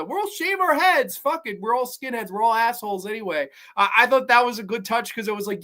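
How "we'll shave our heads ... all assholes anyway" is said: high, goofy dumb-jock voice; lightly hammed-up meathead bravado; mock jock bullies. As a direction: play the brainless bullies mockingly. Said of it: "They're all gonna".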